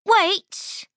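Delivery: high squeaky goat cry; baby goat voice. Acted.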